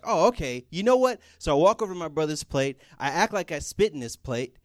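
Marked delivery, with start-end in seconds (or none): 0.1-1.2 fed up. Retold or imitated. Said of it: "I'm like".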